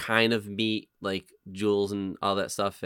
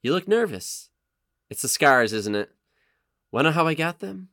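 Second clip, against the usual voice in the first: menacing, playful Joker read; Joker monologue; 3 semitones higher, 4 dB louder than usual. Acted. Villain toying with a frightened woman, menacing. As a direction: tease the victim like the Joker. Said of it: "is it The Dark Knight?".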